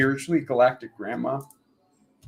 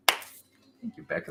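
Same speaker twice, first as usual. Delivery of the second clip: much higher, breathy squeak; squeaky thanks; 8 semitones higher, 4 dB quieter, slower than usual. Real, not acted. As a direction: chirp a quick thanks.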